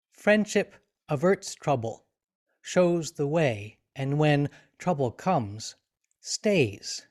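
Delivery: measured reading with a pause after each phrase; reading verse aloud. Shown as a demonstration. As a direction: read it slowly, phrase by phrase. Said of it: "person reading the sentence out loud".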